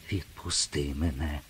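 softly breathed відпусти мене, rising at the end; whispered plea. A narrator's reading. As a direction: ask under the breath, afraid. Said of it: "прошепотіла вона". (тихе благальне «відпусти мене» пошепки)

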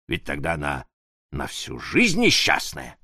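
usual speaking voice

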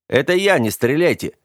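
bright, high carefree shout; cheerful call. A narrator's reading. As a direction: sound cheerful to draw fire. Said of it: "весело бросив". (весело крикнуть)

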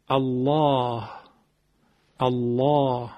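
"الله" with a thick, velarized L and dark long a; heavy lam. Shown as a demonstration. Teacher shows the lam after fatha, heavy lam.

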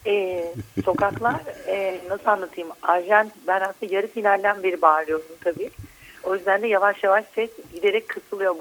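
hoarse, worn-out voice; hoarse and fading from shouting. Real, not acted. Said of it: "sesim kısıldı". (kısılmış, yorgun ses)

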